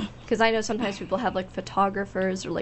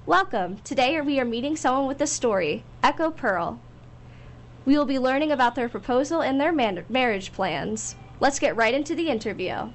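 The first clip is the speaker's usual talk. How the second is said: radio host intro; 4 semitones higher than usual. Acted. Radio host opening segment.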